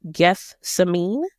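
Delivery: Gethsemane said slowly, syllable by syllable; Gethsemane pronounced slowly. Shown as a demonstration. Vlogger unsure of Gethsemane, sounding it out slowly. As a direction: spell out Gethsemane with care in the sound. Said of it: "it's pronounced to me".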